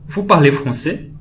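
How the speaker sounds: statement word order, "français" turned upward at the end; rising question intonation. Shown as a demonstration. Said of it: "vai mudar sua entonação".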